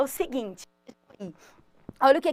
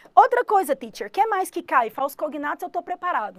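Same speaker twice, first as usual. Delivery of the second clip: higher, louder, voicing an eager student; 3 semitones higher, 4 dB louder than usual. Student calling out to the teacher, eager and higher. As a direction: pipe up like a keen pupil.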